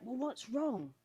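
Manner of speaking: tender, retold concern; concerned mother. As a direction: imitate a mum checking on her worried child. Mother asks panicking son, retold.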